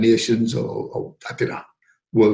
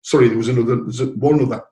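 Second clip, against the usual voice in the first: normal talking voice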